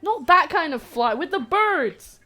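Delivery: exasperated. Real, not acted. Exasperated loud correction.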